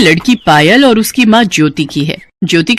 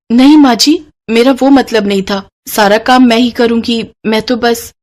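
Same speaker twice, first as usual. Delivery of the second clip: higher, hurried denial from the bride; anxious protest; 4 semitones higher than usual. Acted. Bride protests to mother-in-law, anxious and hurried. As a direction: quickly reassure her.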